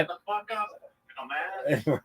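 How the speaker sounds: mock put-down. Joining in mock heckler put-down.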